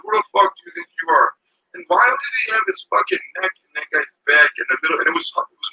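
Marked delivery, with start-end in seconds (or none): 0.0-1.3 mock angry cop. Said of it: "He was like".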